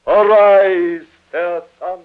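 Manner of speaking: grand Shakespearean recitation with long pauses; theatrical declamation. Acted. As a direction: draw out the verse like a stage tragedian. Father declaims Romeo's speech over daughter.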